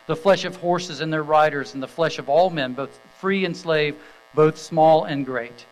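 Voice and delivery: measured, ringing Bible reading to the congregation; scripture reading. Acted. Pastor reading Revelation nineteen to the standing congregation, solemn and proclaiming.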